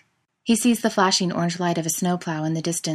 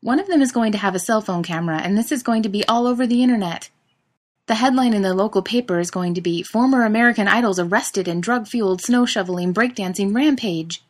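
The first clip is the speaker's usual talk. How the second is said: louder, higher worked-up rant; excited rant; 4 semitones higher, 5 dB louder than usual. Acted. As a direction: spin out the disaster story. Panicked rant about headlines.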